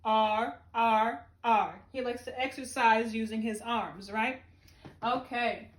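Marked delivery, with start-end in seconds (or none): 0.0-1.8 character chanting R with a lower pitch; Arnie Aardvark's R. Pretend. Teacher voicing Arnie Aardvark's sound, low. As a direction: growl out R like a cartoon aardvark. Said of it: "Arnie Aardvark says".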